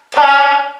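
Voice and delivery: "pa" with a puff of air after the p; aspirated consonant. Shown as a demonstration. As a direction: breathe out through the p of "pa". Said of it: "consonantes aspiradas". (consonante aspirada, "pa" con soplo)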